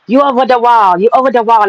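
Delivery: a light mock of a pundit's put-down; Kevin Samuels impression. Vlogger quoting the pundit's dismissal, mocking. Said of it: "like Kevin Samuels says".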